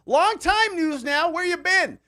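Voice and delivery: high, slow, sing-song welcome back; high drawn-out hello; excited greeting. Real, not acted. Greeting returning viewer.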